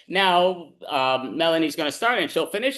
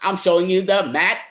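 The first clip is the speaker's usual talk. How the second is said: bartender's dismissal; 2 semitones higher, 5 dB louder than usual. Acted. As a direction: throw them out with the punchline. Bartender delivers punchline, throws them out.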